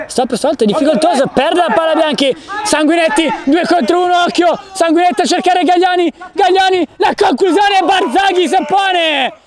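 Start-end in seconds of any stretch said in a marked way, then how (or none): 2.6-9.3 excited. Real, not acted. Fast attack building.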